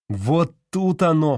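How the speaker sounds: выше, громче и медленно; победно, с нажимом; торжествующе. A narrator's reading. Профессор стучит по лбу. (профессор торжествующе стучит пальцем по лбу)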